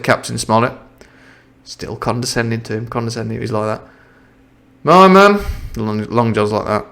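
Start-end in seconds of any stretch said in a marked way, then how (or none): 4.8-5.4 a touch of held-back anger; suppressed rage. Acted. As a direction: hold the rage under the words. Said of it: "suppressing his rage".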